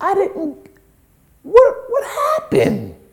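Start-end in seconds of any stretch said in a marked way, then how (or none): 1.4-2.9 high-pitched, swooping voice shooting very high. Recounting seeing a man smacked at the Oscars: voice going high. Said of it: "I know my voice is going high".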